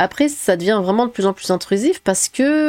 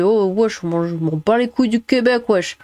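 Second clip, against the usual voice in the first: French suburb street slang. Retold or imitated. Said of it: "déclarer avec mépris".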